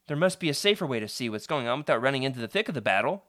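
fast, lightly thoughtful reasoning. Acted. Kid reasoning with his friend, a touch thoughtful. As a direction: think it through aloud. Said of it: "you say thoughtfully".

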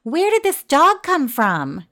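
high, loud, slow questioning; startled demand. A narrator's reading. Mother finds a strange dog at home, startled. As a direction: demand an answer in astonishment.

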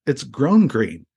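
very slow, "grown" weighted and falling; slow insistence. Retold or imitated. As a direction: lay it out slowly, word by word. Retold argument explaining chili.

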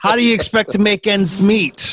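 put-on a light Missouri accent as a let-down father; a lightly voiced disappointed Missouri dad. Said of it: "this is my imitation of a Missouri accent".

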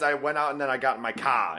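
normal sentence ending in a Boston "car"; fake Boston accent. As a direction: slip into Boston only on the final word. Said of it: "at the end of a completely normal sentence".

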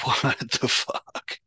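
slow, breathless whispered disbelief; a slow hushed gasp of disbelief; stunned whisper. Retold or imitated. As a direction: mouth it in shock, slowly. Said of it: "we were like".

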